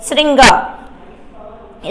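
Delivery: श्रृंगार stretched very slowly, each sound held; teacher drawing out श्रृंगार; careful slow pronunciation. Shown as a demonstration. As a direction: spell out श्रृंगार syllable by syllable. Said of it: "ये बहुत बार पूछा गया है".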